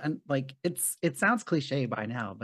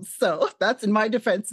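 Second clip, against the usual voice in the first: laughing; 7 semitones higher, 7 dB louder than usual. Real, not acted. Laughing confession about tattoo.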